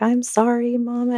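apologetic daughter. Retold or imitated. Daughter apologizing to sobbing mother.

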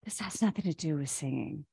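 calm inner voice. Retold or imitated. Voicing her higher self.

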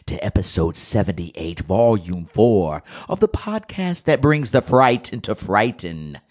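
hammed-up creepy announcer with exaggerated swoops; mock-scary show intro, stretched and theatrical; spooky Halloween host. Opening the Halloween podcast for listeners, hammed-up spooky voice. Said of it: "That was a terrible voice".

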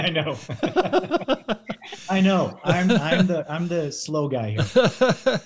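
laughing through the words, loud and high; self-mocking laugh while talking. Real, not acted. Laughing at his own slowness.

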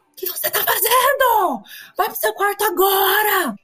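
high, sharp mock scolding shout; angry mother. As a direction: snap at the child to go to her room. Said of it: "deu vontade de falar". (mãe brava gritando de brincadeira)

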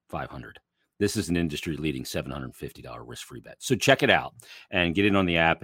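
upbeat sponsor read. Acted. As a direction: sell the promo like a host ad.

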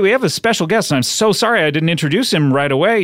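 lightly put-on gushing host; over-apologetic host. Host introducing a special guest late, mock-apologetic. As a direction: start high, as if suddenly remembering a guest.

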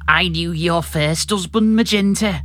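Sheikh Vizier. Acted. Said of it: "increase the amount of phlegm or something".

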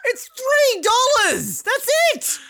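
hammed-up crying plea, slow; mock crying. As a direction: whine it like fake crying.

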